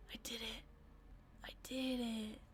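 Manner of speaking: soft, breath-only murmur of triumph; hushed disbelief. Real, not acted. Player who just made it through, hushed disbelief. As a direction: whisper it in amazed relief.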